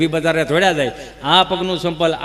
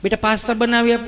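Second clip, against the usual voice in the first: put-on coaxing sing-out to a little child, slightly raised pitch; doting mother; 4 semitones higher than usual. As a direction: coo like an indulgent mum. (લાડ લડાવતી mummy)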